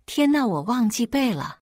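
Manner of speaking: high, dismayed exclamation; high-pitched fretting; panicked realization. Acted. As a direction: blurt it out in mild panic. Classmate panics about dictation.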